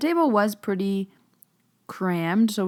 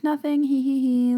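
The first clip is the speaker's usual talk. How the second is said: higher, mock innocent tittering; nervous giggle; 8 semitones higher, 5 dB louder than usual. To curious relatives at dinner, fake giggle. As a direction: laugh it off to hide the secret. Covering up whispering to the table.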